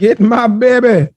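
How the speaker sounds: high, drawn-out comic shout; hammed-up Fat Bastard-like call; mock yell. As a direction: imitate a man yelling, high and stretched. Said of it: "A man yelled".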